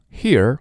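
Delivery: "Here" said high with a curled-tongue r; r-coloured ending. Shown as a demonstration. Teacher isolating a word for learners, strong American r. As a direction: curl the tongue at the end of "Here". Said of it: "我们用这个卷舌音儿".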